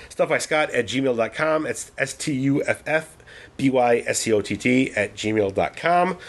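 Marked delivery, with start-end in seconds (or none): 0.1-1.7 hiccuping while spelling the address; hiccups. Real, not acted. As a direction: catch a hiccup mid-line. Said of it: "I'm getting the hiccups now".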